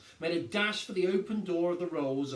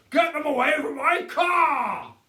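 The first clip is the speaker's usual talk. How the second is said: higher, louder outraged shout; 12 semitones higher, 13 dB louder, slower than usual. A narrator's reading. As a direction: yell for his precious car. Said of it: "shouted Mister Hazel".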